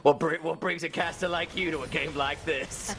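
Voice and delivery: smoky hardboiled detective line; noir detective. Acted. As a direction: deliver it like a film noir gumshoe. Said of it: "it's your noir voice".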